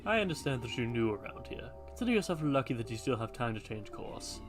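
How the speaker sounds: a hint of a solemn old guardian; hooded man voice.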